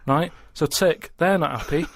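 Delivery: normal talking voice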